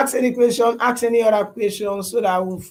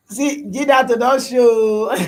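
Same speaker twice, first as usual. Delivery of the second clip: laughing; 3 semitones higher, 4 dB louder, slower than usual. Real, not acted. Laughing at viewer's comment.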